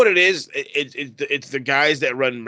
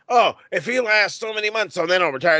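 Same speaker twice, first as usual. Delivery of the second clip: mocking whiny quote; 8 semitones higher, 4 dB louder than usual. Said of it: "Motherfucker shows up".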